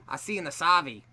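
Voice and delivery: passable imitation of an Aussie accent; Australian accent attempt. American repeating an Australian friend's phrase, imitated Australian accent. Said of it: "Yeah, that's not bad".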